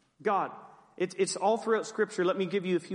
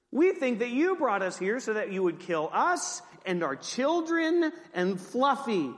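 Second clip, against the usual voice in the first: mock accusation; 4 semitones higher than usual. People accusing Moses, joking.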